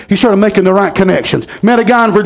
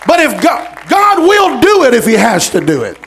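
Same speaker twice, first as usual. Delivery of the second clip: preaching; 2 semitones higher than usual. Acted. Preaching at full force.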